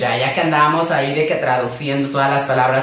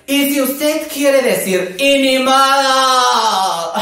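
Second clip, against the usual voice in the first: high, slow "Y ni modo" in a put-on voice; stretched, higher, camp shrug; sassy tone; 8 semitones higher, much slower than usual. Shown as a demonstration. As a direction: toss it off with drag attitude. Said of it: "con el tono".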